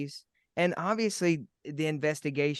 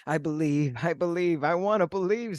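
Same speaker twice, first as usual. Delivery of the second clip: pleading believer. Retold or imitated. Listeners pleading with the ghosts, building up nervously. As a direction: beg the ghosts to leave you alone. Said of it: "they're gonna be like".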